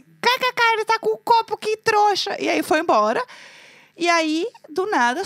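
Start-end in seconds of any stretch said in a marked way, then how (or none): 0.0-2.4 high mocking cackle; mocking the man with one beer; mocking laugh. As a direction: laugh at him scornfully. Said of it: "Eu falei assim".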